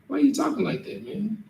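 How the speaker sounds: high, disbelieving mock voice; baffled coworker. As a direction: sound like a friend who can't believe what he's hearing. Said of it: "Brian will look at you like".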